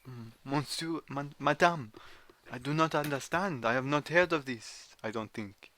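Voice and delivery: mild put-on French accent; polite French gentleman, lightly voiced. French character puzzling over the prophet, a light French accent. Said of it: "chose to do a French accent".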